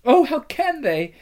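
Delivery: put-on high, pleading girl's voice; Lucy weeping for Aslan; tearful. A narrator's reading. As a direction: grieve in disbelief. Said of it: "said Lucy, tears streaming".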